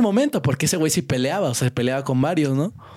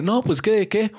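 manly voice; 7 semitones higher, slower than usual. Retold or imitated. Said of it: "sí saqué mi voz de hombre".

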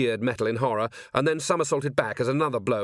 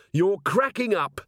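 high, slow jeer in a fight; narrator's contained shout, pitched up; shouted taunt; 8 semitones higher, 4 dB louder, slower than usual. A narrator's reading. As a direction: taunt the enemy with a raised voice. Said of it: "she shouted".

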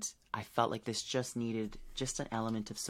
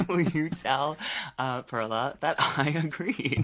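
laughing; 4 semitones higher, 5 dB louder, slower than usual. Real, not acted. Laughing at Perla's text.

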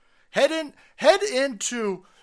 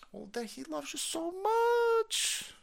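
sarcastic; 13 semitones higher, 7 dB quieter, much slower than usual. Retold or imitated. Sarcastic mock affection.

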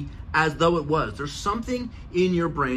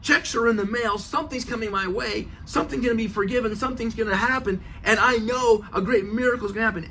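higher, eager confident excitement; excited faith; 5 semitones higher than usual. Retold or imitated. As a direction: sound sure a miracle is coming. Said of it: "He goes".

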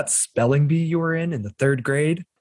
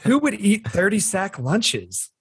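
higher, slow puzzled line; acted quote; 6 semitones higher, slower than usual. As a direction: ask it slowly with wonder. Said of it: "movie quote".

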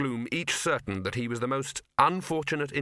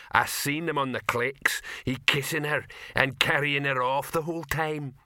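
troll voice in broken grammar; lightly voiced troll telling tales; gossiping troll; 3 semitones higher than usual. Troll telling what he saw on screen, lightly gossiping.

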